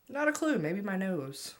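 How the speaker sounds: high and bright, cheeky; cheeky excited answer. Real, not acted.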